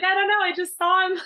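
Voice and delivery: lightly voiced sister, pitched high and loud; imitated clueless sister. Quoting the sister's casual reply.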